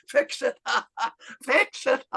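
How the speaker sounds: high mock cackling echo; hooting disbelief, acted out; imitating incredulous laughter. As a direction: repeat it as a joke between laughs. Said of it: "He started laughing again and laughed".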